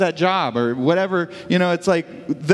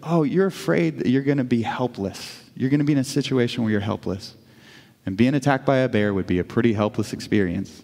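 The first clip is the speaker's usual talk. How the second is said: low, gently understanding; lightly voiced God, calm and reassuring; gracious; 5 semitones lower than usual. God answers the frightened wife, graciously. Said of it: "so graciously said".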